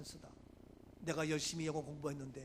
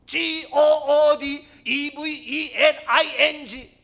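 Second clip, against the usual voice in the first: shouted, drawn-out spelling, higher pitch; even louder reading; 10 semitones higher, 22 dB louder, much slower than usual. Retold or imitated. Laughed-at student reading louder to the class, shouting. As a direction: give up and blast every letter. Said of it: "더 큰 소리로".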